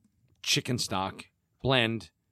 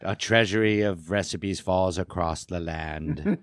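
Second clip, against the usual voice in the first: Vincent Price impression; 3 semitones lower than usual. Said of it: "You win Vincent Price impression contest".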